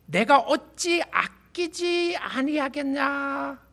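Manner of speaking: slow, emphatic, stress on 내가; emphatic scripture reading. Acted. Preacher reading God's question to Jonah, slow and emphatic. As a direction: proclaim God's question slowly and firmly.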